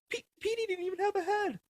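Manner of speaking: mock dismay. Acted dismay over headless bird.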